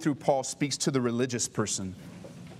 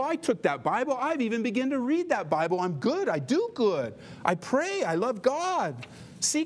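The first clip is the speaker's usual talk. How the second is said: higher, showy pleading to God, lightly hammed; self-righteous pleading; 6 semitones higher than usual. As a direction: look at me, God, I'm good. Believer pleading goodness to God.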